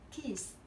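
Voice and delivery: "kissed" with ED as a t; t ending. Shown as a demonstration. Teacher reading example three, "kissed" ending in t. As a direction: finish "kissed" on a voiceless t. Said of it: "khi nào sẽ phát âm là t".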